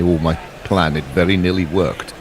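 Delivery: put-on a touch of Russian accent; accidental Russian accent. Commentator voicing the bowler's thought, light Russian accent. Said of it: "did that in a Russian accent".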